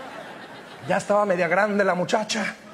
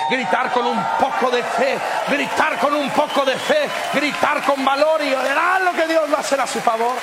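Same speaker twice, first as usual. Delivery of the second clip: louder shout of faith; 2 semitones higher than usual. Shown as a demonstration. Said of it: "gritar un poquito más fuerte".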